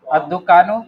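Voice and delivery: अद्दुकानो with the doubled द, said as ad-dukaano; Arabic pronunciation. Shown as a demonstration. Teacher models the Arabic word अद्दुकानो for the student.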